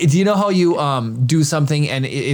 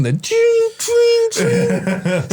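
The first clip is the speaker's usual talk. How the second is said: very high-pitched 'ching' noises; high tinkling sound effect; imitated chime; much slower than usual. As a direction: squeak out a repeated little chime.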